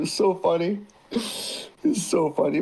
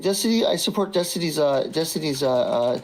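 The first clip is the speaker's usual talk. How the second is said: mock hesitant message; 3 semitones lower than usual. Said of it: "it should be like".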